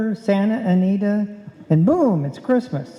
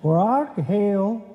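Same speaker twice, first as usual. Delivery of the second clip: disguised cowboy voice; slower than usual. Acted. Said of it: "Hey, that's good".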